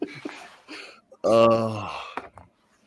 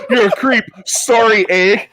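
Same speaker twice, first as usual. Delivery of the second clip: higher, louder jab with a sorry tacked on; mock-polite insult; 7 semitones higher, 5 dB louder, slower than usual. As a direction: toss a playful insult, then a polite Canadian apology. Joking mock-Canadian polite insult.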